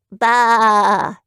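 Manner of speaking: loud scornful bah; loud dismissive bah; crowd's bah. Acted. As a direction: scoff it out loudly. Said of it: "the people replied".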